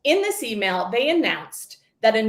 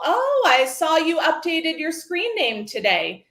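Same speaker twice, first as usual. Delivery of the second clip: higher, breezy put-on "Oh"; feigned casual; 5 semitones higher than usual. Mom pretending to be casual with her daughter, feigned nonchalance. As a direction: act casual, with a lifted opening. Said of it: "pretended to be casual".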